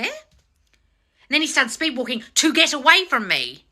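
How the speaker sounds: slowly spelled out, each word held up for scrutiny; slow mocking repeat. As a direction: drag it out to show the bad meaning. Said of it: "you're giving bad meaning".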